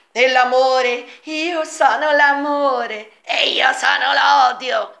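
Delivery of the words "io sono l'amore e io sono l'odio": slow, booming voice of an abstract emotion speaking; slow theatrical shout of a personified feeling; voice of Love and Hate. Pretend. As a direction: proclaim it slowly like a grand allegorical figure. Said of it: "immagino la voce dell'odio".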